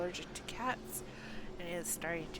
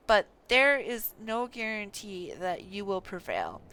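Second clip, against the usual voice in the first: put-on louder, earnest voice for a young scholar; reading NPC lines; 9 dB louder than usual. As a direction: read the quest line with full dramatic weight. Game NPC dialogue read aloud.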